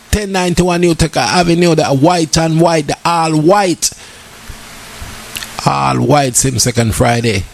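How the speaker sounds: slow, drawn-out party promo announcement; promo ad read. Acted. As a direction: announce the event like a radio ad. Reads event promo.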